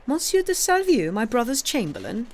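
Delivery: sharp high startled question; the name jolts him. A narrator's reading. King startled as Blacas names Salvieux, high surprised question.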